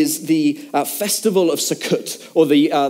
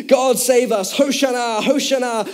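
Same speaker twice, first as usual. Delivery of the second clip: raised-pitch imitation of chanting worshippers; mock crowd clamour; 5 semitones higher than usual. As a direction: echo a crowd's cries without really shouting. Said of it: "People getting louder and louder".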